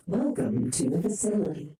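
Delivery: flat robot announcer. Pretend. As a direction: read it like a facility robot. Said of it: "another robotic voice".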